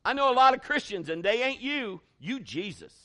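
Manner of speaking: lightly voiced rough guy, emphatic; rough dude. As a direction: voice the tough guy, insistent. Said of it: "this is what the guy says".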